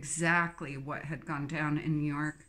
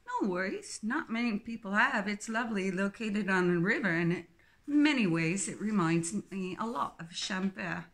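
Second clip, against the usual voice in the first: Philippa, cheery English twin. Acted.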